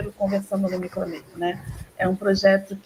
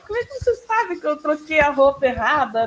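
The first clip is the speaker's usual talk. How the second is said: higher-pitched mock questioning of a coworker; colegas intrigados; 5 semitones higher, 4 dB louder than usual. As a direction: act out puzzled staff demanding to know how. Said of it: "Eles falam assim". (imitando colegas intrigados, voz mais aguda)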